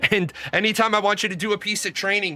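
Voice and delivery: laughing. Retold or imitated. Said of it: "he starts laughing".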